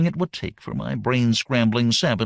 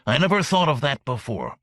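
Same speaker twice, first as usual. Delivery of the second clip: slobbering alien. Acted. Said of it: "he slobbered".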